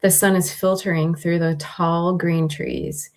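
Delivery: measured meditation read with long pauses; guided meditation. Acted. Host reading a guided meditation to listeners, unhurried guiding voice. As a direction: guide listeners gently, pausing between instructions.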